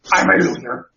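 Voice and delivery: mock pathetic Venom; a sad loser symbiote, hammed up; whiny Venom. Mocking Venom's loser line to the hosts. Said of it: "now he, it's".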